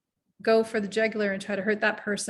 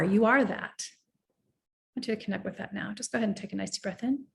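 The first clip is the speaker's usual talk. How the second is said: guided meditation. Acted. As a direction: ease the listener into their body.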